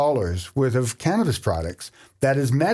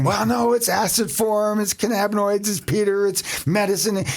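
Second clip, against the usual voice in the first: eager to explain; 5 semitones higher than usual. Retold or imitated. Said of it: "And I'm eager".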